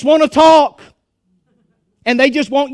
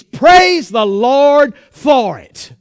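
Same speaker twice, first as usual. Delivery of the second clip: drawn-out shouted praise; preacher shouting praise to the congregation; slow preaching shout; 4 dB louder, much slower than usual. Real, not acted. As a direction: call out the praise slowly and loud. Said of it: "could have stood up and shouted".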